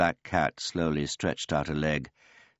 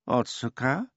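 surprised cat; 9 semitones higher than usual. A narrator's reading. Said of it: "looking at him in surprise".

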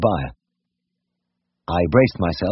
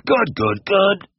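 quick volley of goods, rising at the end; rapid fire; 12 semitones higher, much slower than usual. A narrator's reading. Brothers fire quick replies from behind William. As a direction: fire them off in a burst. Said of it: "rapid fire of the responses".

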